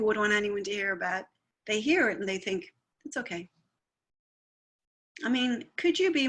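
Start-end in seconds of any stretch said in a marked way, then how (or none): 3.1-3.5 soft, understated reassurance; gentle acceptance. Acted. Loved ones in spirit accepting what they hear, gentle acceptance. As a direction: voice a quiet, accepting reply.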